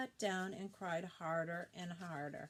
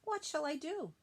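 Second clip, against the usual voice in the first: screaming up a tree; 7 semitones higher than usual. Acted. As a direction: call up to a deaf owl, higher and pushing. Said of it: "screamed at him".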